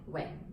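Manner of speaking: "Wang" starting low and sinking; low falling tone. Shown as a demonstration. Teacher shows learners the name's tone, low falling "Wang". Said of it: "is the low falling".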